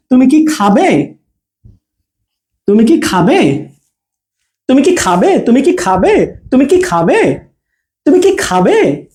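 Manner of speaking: "তুমি কি" run together, swinging tune on "খাবে"; short joined "কি", asking for consent; yes-no question tone. Shown as a demonstration. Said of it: "হ্যাঁ অথবা না বলবে". ("কি" ছোট করে, "খাবে"-তে প্রশ্নের সুর)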